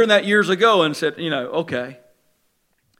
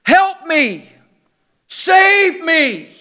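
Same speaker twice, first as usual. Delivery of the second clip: a mildly raised, imitated plea from close by; mock cry for help; 6 semitones higher, much slower than usual. Preacher voicing overboard people nearby, mild mock cry. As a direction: voice a drowning person near the boat, lightly. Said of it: "there's screaming people all around you".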